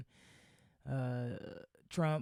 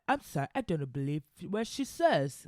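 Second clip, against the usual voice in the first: mock Piers Morgan; 3 semitones higher, 5 dB louder than usual. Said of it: "He's like".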